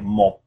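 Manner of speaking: "mo" with air puffed into the cheeks; puffed-cheek P ending. Shown as a demonstration. Teacher sounding out one, "mo" with puffed cheeks. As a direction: close "mo" on a P, cheeks lightly filled. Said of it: "blow a little bit of air into your cheeks".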